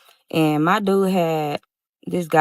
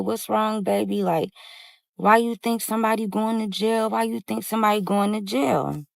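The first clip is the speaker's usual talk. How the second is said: soothing; 4 dB quieter than usual. Retold or imitated. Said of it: "She tryna calm him down".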